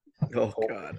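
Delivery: unexcited, unenthusiastic tone. Reacting to hearing the next movie to review, sounding unexcited. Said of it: "You sound so excited".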